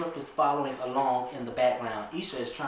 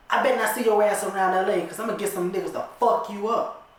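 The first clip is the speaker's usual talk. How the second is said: fuming threat; 5 semitones higher, 4 dB louder than usual. Acted. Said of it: "She fuming mad".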